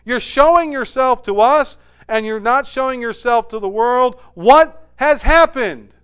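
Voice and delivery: a stunned disciple catching the shift; astonished question. Acted. Disciple suddenly realizing, loud surprised wait a second. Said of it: "he's like".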